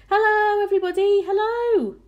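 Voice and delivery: put-on very high, loud boyish hail; joyful calling out. A narrator's reading. Small boy waving from the peach, joyful high call. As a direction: call it merrily to a crowd far below. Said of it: "laughing and waving and calling out".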